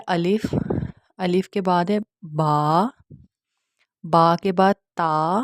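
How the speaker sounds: letters held long and clear; careful teacher demonstrating Arabic letters; model letter pronunciation. Shown as a demonstration. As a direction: sound out each letter name, drawing it out. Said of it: "کس طرح سے ادا کیا جاتا ہے".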